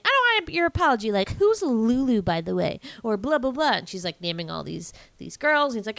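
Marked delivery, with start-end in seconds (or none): 0.0-2.8 pitched up, quick indignant comeback; mock indignant retort. Lady rejecting Tramp's apology, mock indignant. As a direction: act out her huffy rebuff.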